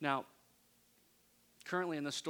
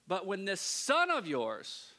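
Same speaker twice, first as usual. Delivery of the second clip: bitter complaint; 4 semitones higher, 5 dB louder, slower than usual. Retold or imitated. Older son's bitter complaint.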